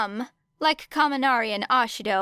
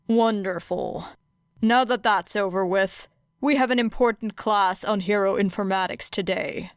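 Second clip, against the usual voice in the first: Aizawa's voice. Acted. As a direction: address the class flatly. Aizawa dry to class.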